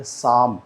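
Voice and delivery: साम said sahm with the p silent; psalm said sahm, no p sound. Shown as a demonstration. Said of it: "प sound जो है वो silent रहती है".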